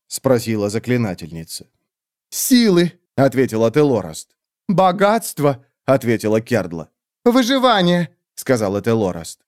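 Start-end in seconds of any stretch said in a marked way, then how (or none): 2.3-2.9 much higher squeaky groveling bird voice; fawning creature. Acted. Skeletal bird creatures grovelling before the great witch, high squeaky. 4.7-5.6 much higher squeaky groveling bird voice; fawning creature. Acted. Skeletal bird creatures grovelling before the great witch, high squeaky. 7.2-8.1 much higher squeaky groveling bird voice; fawning creature. Acted. Skeletal bird creatures grovelling before the great witch, high squeaky.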